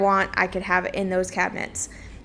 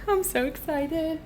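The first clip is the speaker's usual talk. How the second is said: excited; 7 semitones higher, 4 dB quieter, slower than usual. Real, not acted. New fridge arriving.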